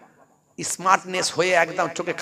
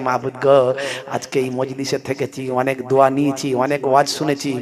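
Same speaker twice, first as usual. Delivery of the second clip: mock pleading prayer; 3 semitones lower, 3 dB louder than usual. Youth praying for lottery win.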